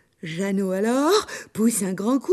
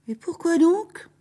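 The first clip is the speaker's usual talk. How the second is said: suspicious blacksmith; 8 semitones higher than usual. Acted. Le forgeron questionne l'ogresse.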